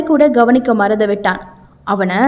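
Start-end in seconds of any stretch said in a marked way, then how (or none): 1.9-2.1 growled under narration, understated anger; angry growl. A narrator's reading. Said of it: "அவன் உரும்பிக் கொண்டிருக்கவே". (கோபத்தில் லேசான உறுமல்)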